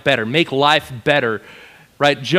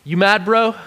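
a playful, laughing "you mad, bro"; teasing God; 5 semitones higher than usual. Acted. God teasing sulking Jonah, high and playful. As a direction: tease him, grinning. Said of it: "He's just like".

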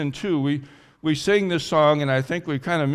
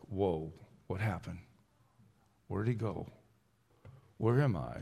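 hushed, low and lost; quiet, dazed questioning; bewildered; 6 semitones lower, 9 dB quieter than usual. Acted. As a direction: murmur it softly, at a loss. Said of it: "we've been left in bewilderment".

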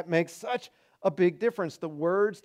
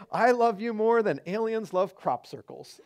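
laughing while quoting; 4 semitones higher than usual. Retold or imitated. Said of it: "to say".

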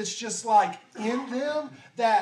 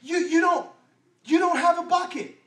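louder, higher, exasperated woman; a skeptical woman complaining he has no bucket; the woman's retort; 4 semitones higher, 4 dB louder than usual. Acted. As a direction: push back at him in disbelief. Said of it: "the way I would say it if I was the woman".

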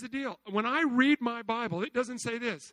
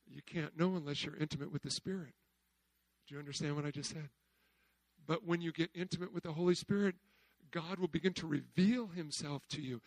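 a soft confiding sermon voice; hushed preaching; 7 semitones lower, 7 dB quieter than usual. Real, not acted. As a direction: drop to a soft, low, intimate voice. Preacher drops to intimate hush.

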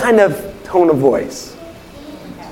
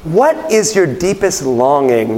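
searching question; slower than usual. Acted. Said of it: "the kind of thing I'm imagining that he's asking".

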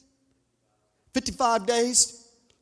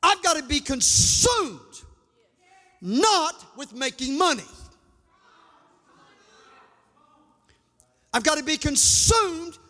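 fervent revival preacher, higher than plain talk; full-force preaching; 5 semitones higher than usual. Real, not acted. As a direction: drive each declaration home to the congregation.

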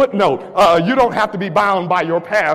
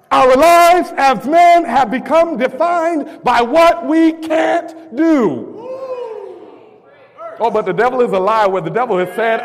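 rising, shouted call-and-response preaching; fiery preaching; 3 semitones higher than usual. Acted. Preacher rallying the church's men, full-force preaching.

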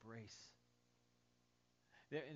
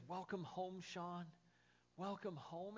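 raised, bright, delighted greeting; joyful welcome; 5 semitones higher, slower than usual. Acted. Jesus greeting the pastor at heaven's door, joyful and raised. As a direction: lift it up like a happy reunion. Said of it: "And he says".

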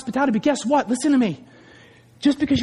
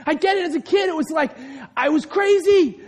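normal talking voice

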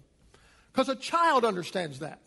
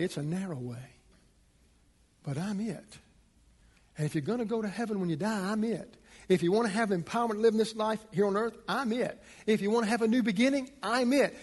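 building preaching refrain; faster than usual. Real, not acted.

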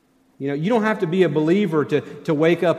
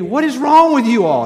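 imitating wife; 9 semitones higher, 9 dB louder than usual. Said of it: "my wife is over there saying to me".

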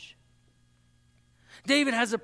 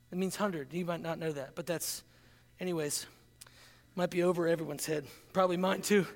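much softer, lower throwaway mutter; quiet aside; 7 semitones lower, 6 dB quieter than usual. Real, not acted. Preacher mutters an aside to the congregation, low and soft. Mumbled aside after slang joke.

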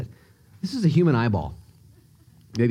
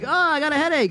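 whiny leech voice; 11 semitones higher than usual. Pretend. Leech with thirty-two brains.

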